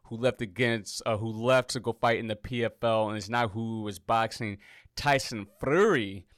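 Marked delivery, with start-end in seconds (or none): 4.9-6.2 name said with an accidental Mexican lilt; a hint of a Mexican accent, pushed up in pitch; attempted Mexican accent. Real, not acted. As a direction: slip into a louder, higher Mexican accent. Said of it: "try to say it in a Mexican accent".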